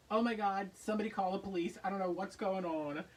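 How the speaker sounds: loud, alarmed outcry; half-joking call for help; mock panic.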